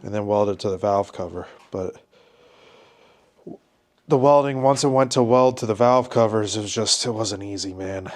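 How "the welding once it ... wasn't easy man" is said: stuffy nose from a head cold; blocked nose, head cold voice; congested. Real, not acted. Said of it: "I'm sorry if I sound a little congested".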